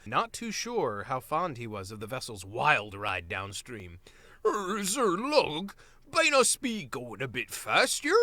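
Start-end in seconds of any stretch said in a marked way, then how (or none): 4.5-8.2 a lightly voiced nervous mole, higher and slower; hesitant little creature asking for less speed; timid mole voice.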